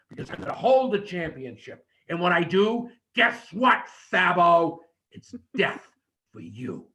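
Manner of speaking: trash talk him, shout then hush; wrestling promo demo. Shown as a demonstration. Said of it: "so that when you tell me".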